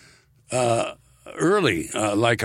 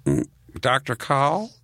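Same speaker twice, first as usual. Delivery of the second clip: land shark voice; 2 semitones higher, slower than usual. Retold or imitated. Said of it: "Then I'd go".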